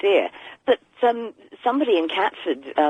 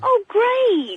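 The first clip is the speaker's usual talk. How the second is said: sarcastic; 3 dB louder than usual. Acted. Sarcastic reply.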